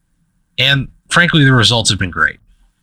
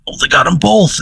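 mock yell; 9 semitones higher than usual. Tour guide hit by two bullfrogs, high mock yell. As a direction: imitate a yell without full volume. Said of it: "he yelled".

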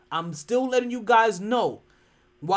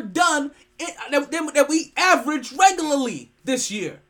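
loud, high, driving team speech; rally the locker room with loud conviction; fired-up pep talk; 6 semitones higher, 6 dB louder than usual. Retold or imitated. Retelling his fiery team speech.

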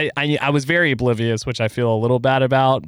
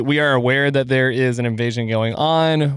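measured, even public-statement delivery; earnest-sounding statement of sympathy; formal disclaimer. Pretend. Reads out a mock-official disclaimer.

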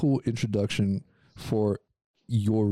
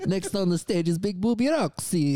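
mock announcer; 9 semitones higher than usual. Mocking the stripper announcement.

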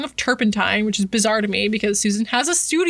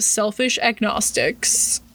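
air-quoted phrase; much slower than usual. Retold or imitated.

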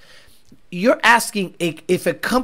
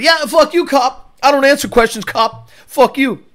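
higher-pitched hammed-up defiance; mock defiant auditor; 5 semitones higher than usual. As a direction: brush the cop off rudely. Acts auditor defying worried cop.

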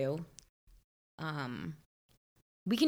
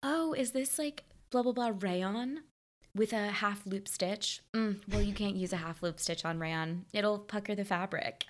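put-on bright snooty preppy girl; 3 semitones higher than usual. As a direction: sweetly correct the salesgirl. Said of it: "She's like".

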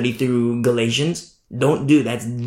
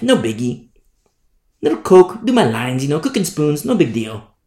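mock casual excuses; 3 semitones lower than usual. Preacher mimics sinners shrugging off sin, mock casual. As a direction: brush it off lightly, mocking the excuser.

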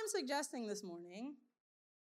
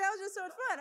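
higher, louder gushing about the ride; excited sister; 6 semitones higher, 5 dB louder, much faster than usual. Retold or imitated. Sister raving about Thunder Mountain, higher excited voice. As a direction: play up the sister's thrill, a bit higher and louder. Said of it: "She was like".

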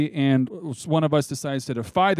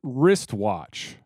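slow and careful; much slower than usual. Shown as a demonstration. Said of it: "You gotta say it fast".

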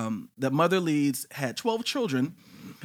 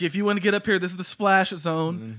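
high, louder hype-man invite; carnival barker; 5 semitones higher, 3 dB louder than usual. Retold or imitated. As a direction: sell it like a showman. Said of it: "It's like".

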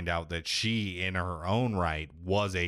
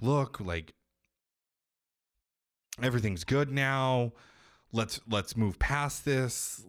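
mildly imitated plea, pitched higher; pleading apology; 5 semitones higher than usual. Mother trying to make peace with her son, mock pleading. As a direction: plead lightly, in a raised voice.

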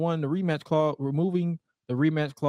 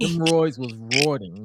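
each word drawn out slowly; slow emphatic; 2 semitones lower, slower than usual. Acted. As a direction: lean on roids was roiding.

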